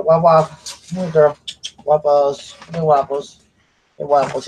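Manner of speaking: calling the dog. Real, not acted.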